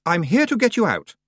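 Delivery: put-on brave young hero voice; heroic young voice. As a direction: declare it boldly. Boy repeats rescue offer.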